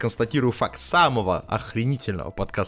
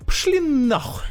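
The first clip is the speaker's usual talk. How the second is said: high, loud shrieked brush-off; rude brush-off; 3 dB louder, slower than usual. Retold or imitated. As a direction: snap it at them, much higher. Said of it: "она так посмотрела".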